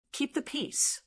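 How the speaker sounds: quiet disbelieving echo; barely voiced, stunned repeat; incredulous, soft. A narrator's reading. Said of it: "A little sad laugh came out".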